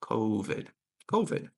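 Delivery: "covid" stressed on CO, short i after; pronunciation demo. Shown as a demonstration. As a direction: model "covid" clearly as KOH-vid. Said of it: "it should be covid".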